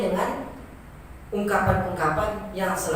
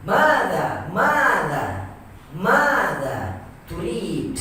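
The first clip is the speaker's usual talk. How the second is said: MADA with long first vowel swelling, then falling; Arabic long-vowel intonation; 2 semitones lower, much slower than usual. Shown as a demonstration. Teacher modelling how Arabs say it, drawn-out "mada turid". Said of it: "Seperti itulah pengungkapan orang-orang Arab".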